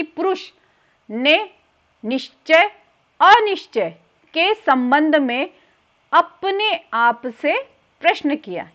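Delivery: slow, with a pause after each chunk; measured teacher's dictation, words set apart; piece-by-piece dictation. Shown as a demonstration. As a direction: spell out a memory phrase for students, chunk by chunk. Dictates the memory trick piece by piece.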